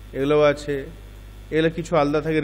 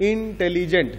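broken into syllables. Shown as a demonstration. Teacher showing class seven how a long word divides, ইন্টেলিজেন্ট broken into syllables. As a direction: sound out ইন্টেলিজেন্ট piece by piece, ইন-টেলি-জেন্ট. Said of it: "তিনটে ভাগ হলো".

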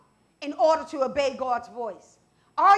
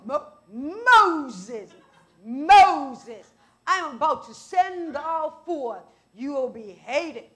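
voice of God; 4 dB louder, much slower than usual. Acted. God voiced calling Moses.

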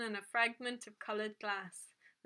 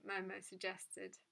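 plain reading voice

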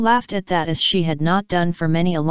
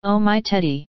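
joyful cry; 2 semitones higher than usual. A narrator's reading. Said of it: "crying joyfully".

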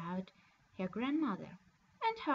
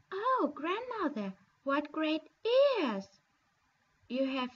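a lightly voiced little girl amazed; Little Red Cap wondering; 3 semitones higher, 4 dB louder than usual. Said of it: "said she".

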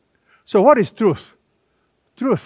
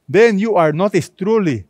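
truly leaned on hard; stress on truly; 2 semitones higher, 3 dB louder than usual. Shown as a demonstration. Preacher to congregation, stressing truly. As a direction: hit the word truly. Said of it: "the emphasis is truly".

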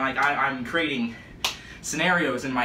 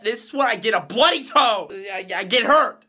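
upset rant; 5 semitones higher, 4 dB louder than usual. Real, not acted. Self-pitying rant over bleeding toe.

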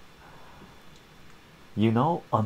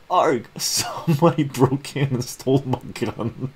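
higher, louder groaning complaint with a laugh; frustrated Ron; 5 semitones higher, 4 dB louder than usual. Acted. Ron complains the gun got stolen, groaning and laughing. Punchline repeat of theft complaint.

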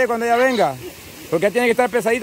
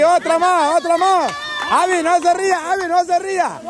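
raised-pitch repeated urging; urgent cheering on; 5 semitones higher, faster than usual. Real, not acted. Host urges players to try once more, excited calling. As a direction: push them on for one more go.

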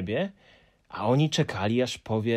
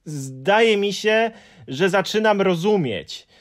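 put-on higher, louder, slow boyish voice; thoughtful Moomin; 9 semitones higher, 7 dB louder than usual. A narrator's reading. Moomin working it out for the Hemulen, thoughtful. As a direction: muse it slowly. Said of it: "po głębokim namyśle".

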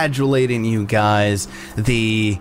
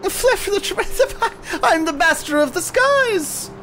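much higher, showing off; boastful pixie. Acted. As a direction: crow about yourself like a tiny diva.

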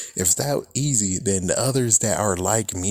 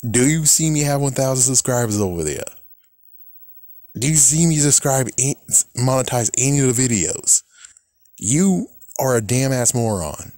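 mildly raised, indignant challenge; indignant retort; 3 semitones higher than usual. Retold or imitated. Creator answering the monetizing accusation, mildly indignant. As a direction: challenge them in exasperation, pressing each question.

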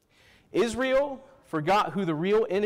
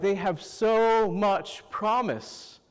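slow, admiring praise; 2 semitones higher, much slower than usual. Retold or imitated. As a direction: savor each word with admiration. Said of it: "they're like".

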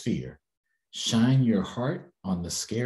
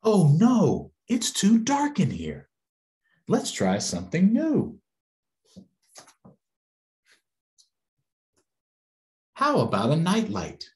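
put-on high, louder frightened little girl; scared child; 10 semitones higher, 5 dB louder than usual. Little girl afraid of the dark calls out, high and frightened. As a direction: squeal it out like a scared child at bedtime.

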